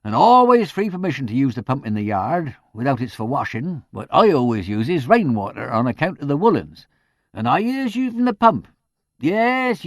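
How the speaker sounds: put-on high, loud gossiping old housekeeper voice; chatty charwoman. A narrator's reading. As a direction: rattle on like an eager village char. Mrs Ruddle voiced by the narrator.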